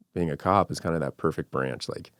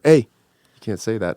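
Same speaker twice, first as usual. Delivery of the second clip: louder, higher, slow imitation of daughter; scolding daughter; 5 semitones higher, 8 dB louder, slower than usual. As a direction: call out a parent like an indignant kid. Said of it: "my daughter's like".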